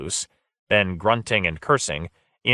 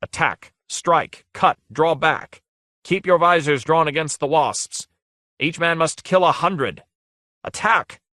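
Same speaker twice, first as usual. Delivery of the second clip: rallying battle cries; 8 semitones higher than usual. A narrator's reading. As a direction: rouse the troops to fight. Lord rallying knights into battle.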